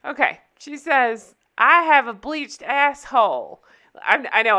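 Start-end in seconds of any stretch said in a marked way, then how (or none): 1.6-3.6 loud, drawn-out mock Southern accent. Friend cutting off guys at the club, loud Southern accent. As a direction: announce it loudly with a slow Southern twang. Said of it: "I'm giving her a southern accent".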